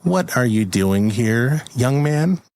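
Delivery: slow fairy scolding, climbing high at the end; disapproving fairy. Pretend. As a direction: question him slowly like a stern fairy. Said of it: "and she goes".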